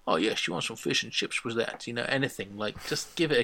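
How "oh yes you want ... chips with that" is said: lightly done Dutch accent; a token attempt at Dutch-accented English. Shown as a demonstration. Podcaster showing how the actor could have tried, light Dutch accent. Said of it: "try and do an accent".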